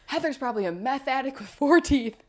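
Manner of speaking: mock friend voice. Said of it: "he's like".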